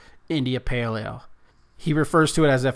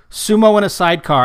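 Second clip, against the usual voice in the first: announcer voice; 7 semitones higher, 9 dB louder than usual. Acted. Announcing the beer name.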